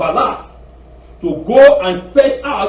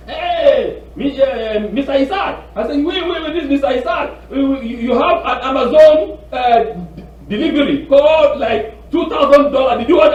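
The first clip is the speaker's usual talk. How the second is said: scam caller; 7 semitones higher, 4 dB louder than usual. Retold or imitated. Acts out scam caller's pitch.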